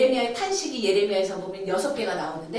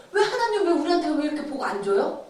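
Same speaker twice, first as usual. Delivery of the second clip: retold complaint; 3 semitones higher than usual. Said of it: "한다는 거예요".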